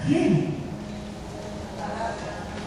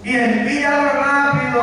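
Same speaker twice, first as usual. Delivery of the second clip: higher-pitched acted begging; urgent plea; 5 semitones higher than usual. Rich man in the flames to Abraham, urgent pleading. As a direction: beg urgently for help to be sent.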